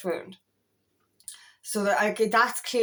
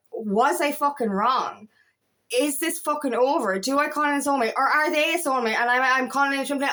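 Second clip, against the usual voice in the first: retold self-doubt, raised pitch; confused, panicky questioning; 4 semitones higher than usual. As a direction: fire off anxious questions, retelling your confusion. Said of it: "I was in such a confused energy going".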